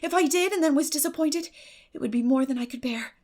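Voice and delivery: lightly voiced eager girl; lightly voiced Anne. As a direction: gush lightly over the evening. Anne's voice held.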